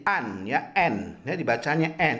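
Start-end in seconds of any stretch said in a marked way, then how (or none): 2.0-2.2 N said as the letter name en, not the written an. Shown as a demonstration. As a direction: read the suffix aloud as en. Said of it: "tulisannya A dan N".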